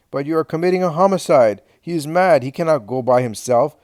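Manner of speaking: loud, high, alarmed protest; shouting. A narrator's reading. Daniel shouts his protest to Helkai. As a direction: cry out against a death sentence. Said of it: "shouts honest Daniel".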